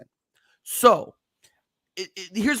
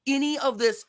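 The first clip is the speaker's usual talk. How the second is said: higher, louder insistence, real frustration; getting angry; 8 semitones higher, 4 dB louder than usual. Real, not acted. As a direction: hammer home that the money is there. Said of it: "sorry, guys, I'm getting angry".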